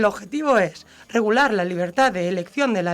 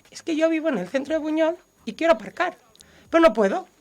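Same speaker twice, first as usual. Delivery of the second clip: mock selfish complaint; 6 semitones higher than usual. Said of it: "como si yo dijera".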